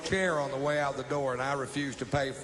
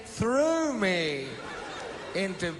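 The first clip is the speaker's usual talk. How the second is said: put-on drunken protest; 5 semitones higher than usual. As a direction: argue back like an indignant drunk. Drunken retold protest to the cop.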